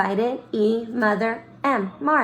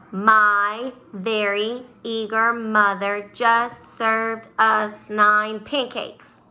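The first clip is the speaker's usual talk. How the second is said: slow mnemonic recital; much slower than usual. Shown as a demonstration. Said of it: "this was the funny saying I learned".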